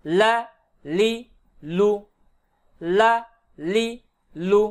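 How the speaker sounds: "লা, লি, লু" with tongue edge on upper gum; touch the front upper gum for each "লা, লি, লু"; tongue-tip lam. Shown as a demonstration. Teacher demonstrates lam at upper gum, tongue-tip pronunciation. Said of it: "জিহ্বার আগার কিনারা".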